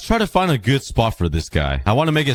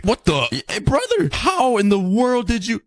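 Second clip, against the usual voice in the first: high, startled disbelief; astonished; 12 semitones higher than usual. Real, not acted. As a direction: gasp it out in shock. Dolphin stranded on land.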